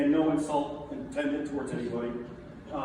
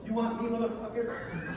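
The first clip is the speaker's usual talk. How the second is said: tough challenge; 9 semitones higher than usual. Retold or imitated. Tommy's retold challenge.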